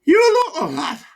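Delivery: put-on high, broad Wearside voice of an old miner; chatty old pitman with a wheezy chest. Old miner to his doctor, broad Wearside.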